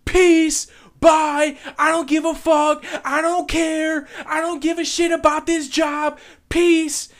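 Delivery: high, loud imitation of a screamed exit; screaming. Worker quitting through the restaurant, screaming defiantly. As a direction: yell it out for the whole room. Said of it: "she's screaming it through the restaurant".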